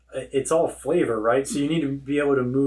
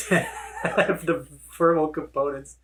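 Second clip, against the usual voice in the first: laughing; 4 semitones higher than usual. Real, not acted.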